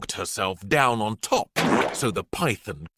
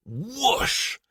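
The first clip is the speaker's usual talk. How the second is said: high swooping sliding sound; gleeful whoosh; 10 semitones higher than usual. Acted. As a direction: make the slide sound fun. Sliding down the snake.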